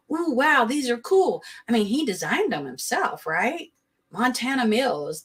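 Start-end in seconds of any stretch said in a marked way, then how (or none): 0.1-1.4 higher, gushing buyer; mock excitement. Mocking buyers who love the shoes, gushing. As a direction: gush like a gullible fan. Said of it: "people are gonna be like".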